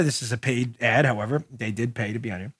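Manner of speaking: a soft, low aside about the paid ad; quiet aside. Real, not acted. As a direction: let it slip out as a muttered disclaimer. Aside, lowered voice.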